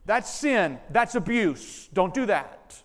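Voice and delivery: loud, slow, emphatic verdict on the sin; forceful condemnation. Real, not acted. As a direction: hammer each word as a firm judgment. Preacher condemns angry punishment.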